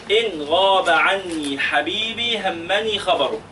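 slow, deliberate mnemonic line; slow dictation. Shown as a demonstration. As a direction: say it slowly so they can write it. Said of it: "اكتبوها". (إملاء بطيء للطلاب)

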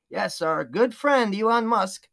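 slow, lightly sarcastic drawn-out delivery. Real, not acted. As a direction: draw out the fake friendliness with dry irony. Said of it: "more than a hint of sarcasm".

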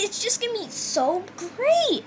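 playing a British singer, badly; fake British accent. Co-host doing a botched British accent as a famous singer. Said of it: "That wasn't British".

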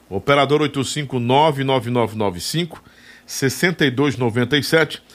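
number read out slowly; slow, clear dictation. Shown as a demonstration. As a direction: spell out each digit slowly. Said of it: "Deixa eu". (ditando devagar)

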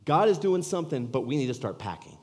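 loud, high, breathless urgency; husband bursting in to tell his wife, elated; excited. Retold or imitated. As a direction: rush to tell her the good news. Excitedly telling wife to pack.

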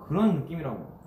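ordinary talk, nothing marked

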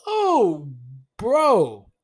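laughing out loud. Real, not acted. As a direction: crack up mid-word. Laughing at the memory.

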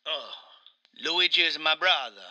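put-on Italian accent, aggrieved game character; Mario with Italian accent. Mario complains to his interviewer, in a thick Italian accent. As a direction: play an indignant Italian Mario.

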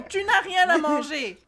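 laughing through the mom impression; mock mother. Retelling the mother holding an onion: mock scolding. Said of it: "Un oignon".

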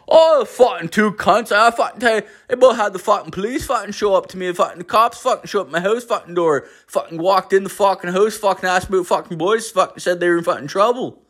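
put-on high, quick Newfoundland accent rant; exaggerated high-pitched Newfoundlander, curse-filled; the speaker's Newfoundland twang. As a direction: rattle off a complaint in a mock Newfoundland twang. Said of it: "like, this weird twang".

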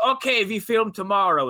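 high, loud, offhand order; brusque director. Retold or imitated. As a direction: bark it breezily. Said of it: "he goes".

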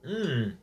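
pleased hum after drinking; satisfied mm after a sip. Real, not acted.

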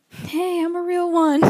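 imitating best friend. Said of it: "my best friend's just sitting there going".

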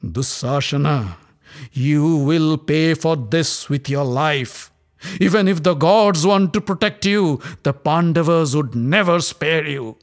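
slow, clipped out word by word, rising; staccato voice. Acted. Draupadi threatening Dussasana, slow and staccato. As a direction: spit each word as a threat. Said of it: "With a staccato voice".

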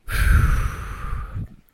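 loud, long exhale; heavy sigh. Real, not acted. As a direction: let out a big breathy sigh. Loud breath before next part.

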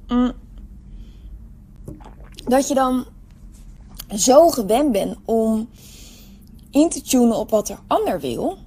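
talking just after a sip of water; while sipping a drink. Real, not acted. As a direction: speak with a wet mouth from drinking. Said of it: "Ik neem even een slokje water". (net na een slokje water)

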